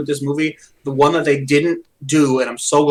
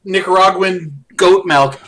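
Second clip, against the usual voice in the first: eager henchman; 4 semitones higher, 4 dB louder, slower than usual. Retold or imitated. Quoting henchman offering latte.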